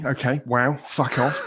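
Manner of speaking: lightly voiced irritated chef swearing; a quick hint of an exasperated Ramsay; Gordon Ramsay impression. Guest tosses off a brief Gordon Ramsay swear. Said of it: "Gordon Ramsay".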